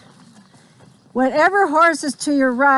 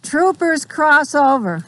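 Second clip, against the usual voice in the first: called command; 4 semitones higher than usual. Real, not acted. Instructor calls drill command.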